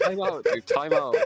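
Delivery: loud, high, pleading time out; urgent shouting. Real, not acted. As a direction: yell to make him stop. Begging friend to stop.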